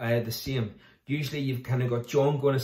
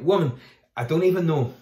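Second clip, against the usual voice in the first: louder, higher, sharp protest; mild angry denial; 4 semitones higher, 6 dB louder than usual. Acted. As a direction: push the accuser away with it. Peter denies, accused in courtyard.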